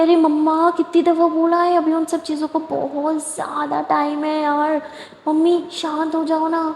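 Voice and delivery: high, exasperated whine; whining at mum. Acted. Aliya whining to her mother, high exasperated.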